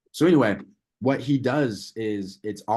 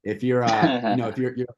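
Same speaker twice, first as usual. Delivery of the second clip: seminar coach voice; 3 semitones higher, 5 dB louder than usual. Pretend. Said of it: "like, a seminar".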